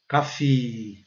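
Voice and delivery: "Coffee" with a long final ee; "Coffee" with the ee held and falling; strong syllable. Shown as a demonstration. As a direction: say "Coffee" as two syllables, "KAH-feee". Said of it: "sílaba forte".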